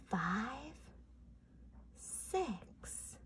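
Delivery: slow hushed whisper. Shown as a demonstration. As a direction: whisper the count quietly. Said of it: "let's whisper while we count".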